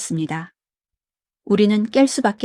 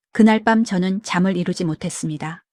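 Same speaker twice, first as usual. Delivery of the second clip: usual speaking voice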